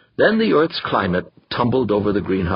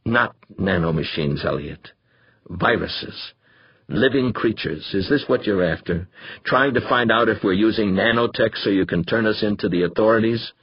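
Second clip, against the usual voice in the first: calm and cold. Acted. Molina corrects Danvers, calm and coldly controlled. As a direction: hold it in, cold and measured. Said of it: "At last he said calmly, coldly".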